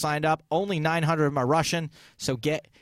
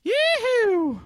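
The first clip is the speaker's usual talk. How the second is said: excited; 4 dB louder than usual. Real, not acted. Host celebrating the prize.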